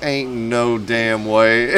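slow, drawn-out disbelief; head dude can't believe the bottle; stunned disbelief. Retold or imitated. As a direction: let each word land in shock. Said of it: "the head dude was like".

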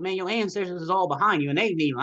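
quick, high-pitched disbelief; retold astonishment. Retelling astonished words to his wife.

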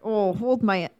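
understated Wisconsin tough guy; Wisconsin accent. Acted. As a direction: get ready to fight in a Wisconsin accent. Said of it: "if he was in Wisconsin".

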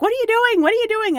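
a shocked purser catching intruders; alarmed question. Retold or imitated. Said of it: "and she's like".

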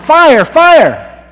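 very high, very loud desperate shout; pounding on the door to wake the family, screaming at full force; yelling fire. Retold or imitated. Full-throated alarm scream. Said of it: "he beat on the door and he yelled".

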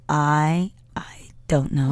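cracked, breaking voice; voice cracking. Real, not acted. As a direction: voice cracks mid-line. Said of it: "My voice just cracked".

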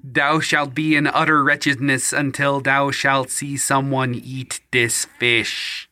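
a faint hint of Cyril's mixed accent, laying on a curse; Cyril impression. Poor fisherman curses the bandit, light Cyril accent. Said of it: "I'm gonna do my best Cyril impression".

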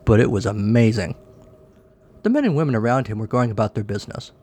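animated storytelling with lively pitch swings; comic story narration. A narrator's reading. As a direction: read a silly tale aloud to listeners.

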